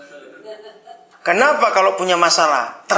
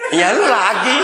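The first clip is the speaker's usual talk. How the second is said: laughing retort; 3 semitones higher than usual. Pretend. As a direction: greet trouble with a laugh. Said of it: "gimana reaksinya".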